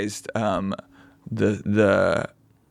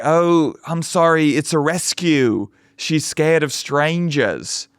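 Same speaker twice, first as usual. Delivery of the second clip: mock dog owner; 5 semitones higher, slower than usual.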